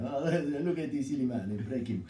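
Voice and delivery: a light, laughing mock Italian accent. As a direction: toss it off in a jokey Italian accent. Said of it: "That was my Italian accent".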